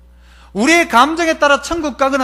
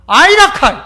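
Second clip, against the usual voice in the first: higher, louder Gyeongsang 아이라카이; Gyeongsang dialect; 5 semitones higher, 6 dB louder than usual. Shown as a demonstration. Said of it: "이걸 경상도 말로".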